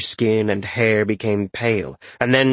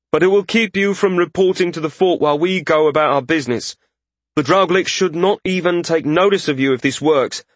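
higher-pitched mage figure, earnestly explaining; anxious mage; 5 semitones higher than usual. A narrator's reading.

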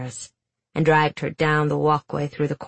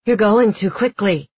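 angry; 4 semitones higher, 5 dB louder than usual. Acted. Guard scolding prisoner.

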